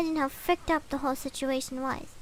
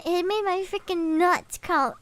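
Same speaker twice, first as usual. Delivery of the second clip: usual speaking voice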